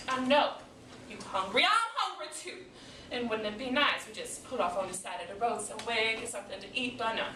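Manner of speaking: sarcastic grumble after a tirade; exasperated wife venting; fed-up mother, aggrieved. Acted. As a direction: complain to the family, easing down. Same character, complaining of hunger.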